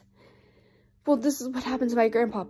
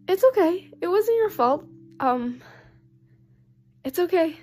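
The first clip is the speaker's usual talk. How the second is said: reassuring; 4 semitones higher than usual. Real, not acted. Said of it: "reassuring grieving viewers".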